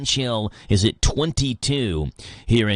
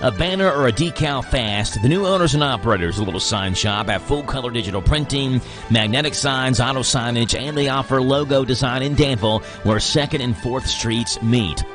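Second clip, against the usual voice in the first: ad read. Acted. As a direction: sell the sign shop like a radio spot. Host reads a sponsor ad.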